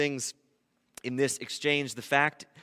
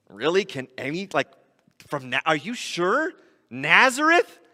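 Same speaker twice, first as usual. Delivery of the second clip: skeptical disbelief; 4 dB louder than usual. Acted. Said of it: "Nathanael's response is".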